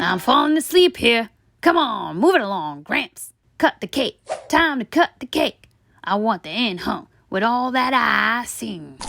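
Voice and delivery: impatient tooth nagging the family; pushy sweet tooth. Acted. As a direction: heckle Gramps to hurry up. The tooth heckles at a wedding.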